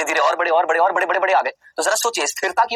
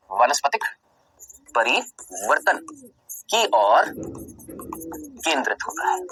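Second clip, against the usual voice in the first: slow dictation; 4 dB quieter, slower than usual. Shown as a demonstration. Teacher dictating the missing word for notes, very slowly. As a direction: dictate the line word by word with pauses. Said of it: "मैंने यहाँ पर ये word लिखना भूल गया".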